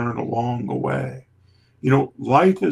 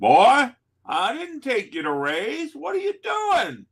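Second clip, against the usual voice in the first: put-on very high, swooping, broad, thick Kentucky accent; 12 semitones higher than usual. Retelling what his instructor said on walking in, imitating Jerry's thick Kentucky accent. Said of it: "this thick Kentucky accent".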